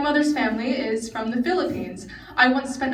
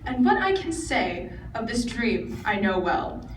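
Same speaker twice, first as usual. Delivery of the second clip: measured, deliberate poem reading; poem recitation. Acted. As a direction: recite it like a speech-contest poem.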